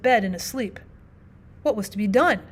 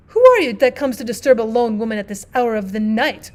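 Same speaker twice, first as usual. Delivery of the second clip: sharp wife's voice; 6 dB louder than usual. Acted. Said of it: "cried a sharp voice from above".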